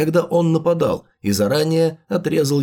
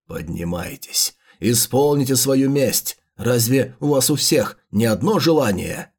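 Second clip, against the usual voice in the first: slow theatrical villain menace; 2 semitones lower than usual. Acted. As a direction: command the dead with menace. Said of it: "ты сейчас на сто процентов ведёшь себя как злодей".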